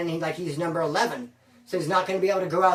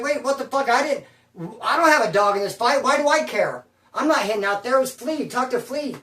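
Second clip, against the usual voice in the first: higher-pitched, insistent self-defence; retold protesting; 4 semitones higher than usual. Accused messenger speaking up for himself, mildly worked-up protest. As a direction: protest your innocence, pitch lifted. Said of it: "But I start protesting. I start speaking for mine".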